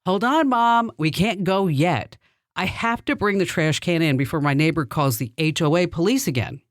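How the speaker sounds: calling out to Mom so the neighbor hears; loud on purpose for the neighbor to catch; really loud voice. Retold or imitated. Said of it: "So I said in a really loud voice".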